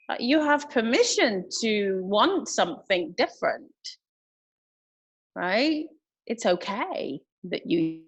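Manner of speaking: choppy dropouts on a video call; bad connection. Real, not acted. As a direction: voice breaking up over a call. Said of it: "You're breaking up there".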